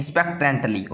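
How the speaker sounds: "expectantly" slowly and carefully syllabified; "expectantly" in measured syllables; pronunciation demo. Shown as a demonstration. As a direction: repeat "expectantly" slowly as a model. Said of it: "इस प्रकार बोलिएगा".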